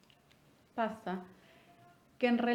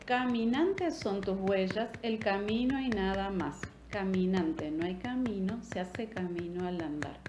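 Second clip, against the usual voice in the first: poem recital. Shown as a demonstration. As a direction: read it like a poem, beat by beat. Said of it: "cuando nosotros leemos o recitamos esta poesía".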